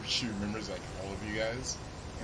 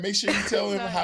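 mom voice; 8 semitones higher, 6 dB louder than usual. Retold or imitated. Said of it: "She was like".

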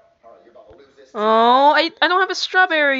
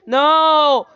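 sharp loud no; loud protest; 4 semitones higher, 6 dB louder than usual. Real, not acted. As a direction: cut him off loudly. Arguing about the logo.

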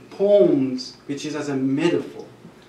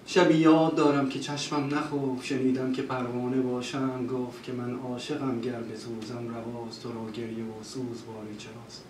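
recited Persian poem; 3 semitones lower, 4 dB quieter, much faster than usual. Retold or imitated. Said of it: "he started singing that poems".

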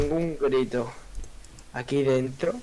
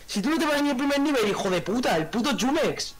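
mock insult; 10 semitones higher than usual. Real, not acted. Insulting friend jokingly.

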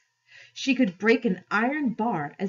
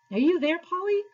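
calling out; 11 semitones higher, 4 dB louder than usual. A narrator's reading. Calling out in darkness.

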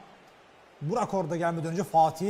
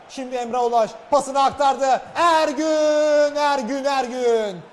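excited football commentator; 3 semitones higher, 5 dB louder, slower than usual. Real, not acted. Last attack call.

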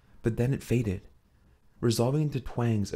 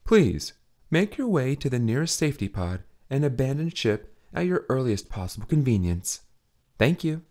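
automated voice; 3 semitones higher than usual. Acted. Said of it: "with far less conviction than the moment called for".

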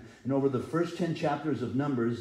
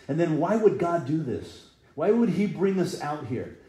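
mock complaint; 5 semitones higher, 6 dB louder than usual. People complaining against God.

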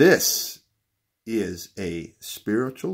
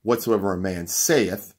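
saith leaned on as the key word; stress on saith; 4 dB louder than usual. Shown as a demonstration. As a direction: land firmly on saith, swapped into the verse. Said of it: "Let me say it like this".

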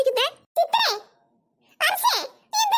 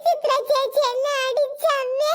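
slow, drawn-out tattling wail; childish crying; 3 semitones lower, slower than usual. Acted. Child telling mother that Chitra hit her, wailing. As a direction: wail it out, stretching the last word. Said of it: "എന്താ കരയുന്നേ?".

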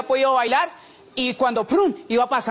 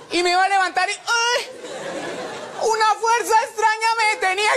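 dramatic suspense; 8 semitones higher than usual. Acted. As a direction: make it sound like a horror trailer. Dramatic narration of strange force.

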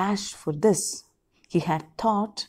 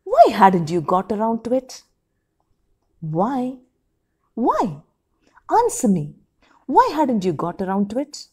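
angry demand; 2 semitones higher, 4 dB louder than usual. Acted. Wife demanding why the letter was kept, heated. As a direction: press him hard for an answer. Wife angrily confronting husband.

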